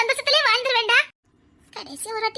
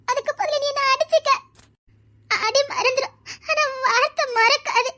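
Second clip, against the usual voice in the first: pleading through tears, voice catching; tearful plea. Acted. Tearful plea to her lover.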